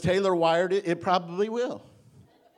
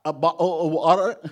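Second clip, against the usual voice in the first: put-on British accent; 7 dB louder than usual. Son teasing dad's request for water, in a mock British accent. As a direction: imitate a puzzled British query, stumbling over the words. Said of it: "he said in a British accent".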